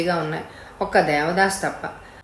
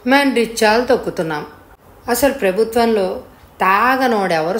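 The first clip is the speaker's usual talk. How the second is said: put-on cheeky drunk rickshaw puller. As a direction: hold forth to the customer, mildly emphatic. Drunk rickshaw puller lectures customer.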